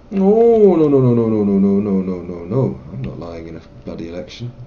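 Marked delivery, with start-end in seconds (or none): 0.1-2.8 loud string of no, dropping away; emphatic refusal. Acted. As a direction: refuse firmly, then fade out. Refuses bribe, rapid loud denial.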